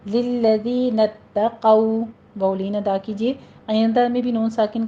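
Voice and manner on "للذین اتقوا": للذین اتقوا very slow, doubled t, heavy qu; tajweed recitation. Shown as a demonstration. Teacher recites the phrase slowly for students. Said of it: "تشدید ادا کرنی ہے اور قو کو پر پڑھنا ہے".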